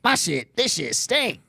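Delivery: high put-on puppet voice; squeaky complaining puppet. Puppet complaining about needing a shower, high voice. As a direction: whine it like a put-upon puppet.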